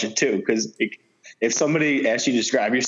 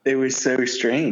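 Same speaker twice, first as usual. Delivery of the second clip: slow, stiff monotone delivery; deadpan awkward robot tone; Kawhi Leonard impression; 3 semitones higher, slower than usual. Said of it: "That was actually a pretty good impersonation".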